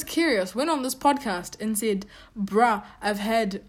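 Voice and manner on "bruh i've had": a lightly put-on Australian twang, slow; imitating Nick in a clumsy Australian accent; bad Australian accent. Vlogger mocking Nick's podcast line, bad Australian accent. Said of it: "that's a horrible Australian accent".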